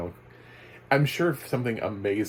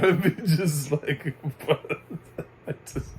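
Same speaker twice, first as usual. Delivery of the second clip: real high-pitched laughter; breaking into laughter mid-sentence; laughing; 7 semitones higher, 5 dB louder than usual. Real, not acted. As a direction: crack up at the absurd idea. Amused at AI narration.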